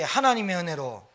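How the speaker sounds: a bigger call of 하나님의 은혜로. Shown as a demonstration. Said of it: "크게".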